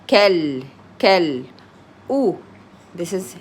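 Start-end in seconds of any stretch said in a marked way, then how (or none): 0.1-1.4 كال with no long vowel before the lam; straight into the lam. Shown as a demonstration. Teacher shows a learner the joined letters, straight into the lam in كال. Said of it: "and then the لام directly".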